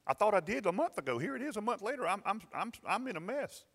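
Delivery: retold fearful prayer. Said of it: "I was so afraid".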